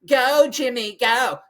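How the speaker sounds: high, sing-song mock cheer of a spectator; mocking fan cheer. Griping about race spectators, mocking their cheer. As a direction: parody the fans yelling for their runner.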